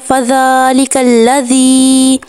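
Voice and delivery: slow melodic tajweed chant; Quranic recitation. Shown as a demonstration. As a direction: recite slowly with full tajweed. (آہستہ تجوید کے ساتھ تلاوت)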